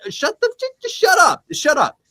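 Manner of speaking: sudden very high, loud shout; shouting shut up. Real, not acted. Host interrupting his own mock sales pitch, yelling shut up. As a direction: cut yourself off with a loud yell.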